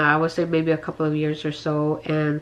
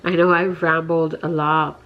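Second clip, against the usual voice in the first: sick, worn-out voice; tired and under the weather; feverish. Real, not acted. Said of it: "I sound so horrible and I feel horrible".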